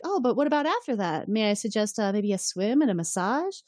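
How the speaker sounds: lightly imitated woman making advances; suggestive offer. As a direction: lift the opening into a coaxing offer.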